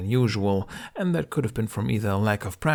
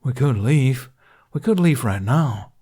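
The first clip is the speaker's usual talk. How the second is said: loud suggestion; 4 semitones higher, 7 dB louder than usual. A narrator's reading. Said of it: "Toothless suggested".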